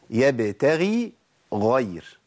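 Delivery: "يبتغي" and "غير" slow, with a break between; separated ghayns. Shown as a demonstration. Teacher pointing out both letters, separated ghayns. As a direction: part the kasra ghayn from the fatha ghayn. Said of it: "أدي غين مكسورة وبعدين غين مفتوحة".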